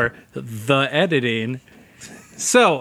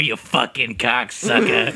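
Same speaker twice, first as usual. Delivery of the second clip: drawled Deadwood insult; 3 semitones lower, slower than usual. Pretend. Deadwood-style cowboy insult.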